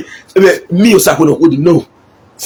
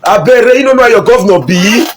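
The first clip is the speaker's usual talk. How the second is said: raised-pitch mimicry of grumblers; mock the governor's critics in a higher voice; higher, put-on complaint of backbiters; imitating two-faced critics; 5 semitones higher than usual. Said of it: "you hear them say".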